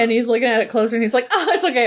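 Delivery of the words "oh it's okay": pitched-up relieved exclamation; light mock reassurance; mock relief. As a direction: imitate a relieved dad, voice lifting high. Retold dad's relief over vase.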